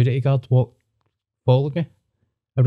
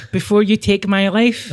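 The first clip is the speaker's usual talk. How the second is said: higher, slow dramatic plea; mock plea; 7 semitones higher than usual. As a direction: drag it out like a doomed man. Mock pleading to threatening uncle.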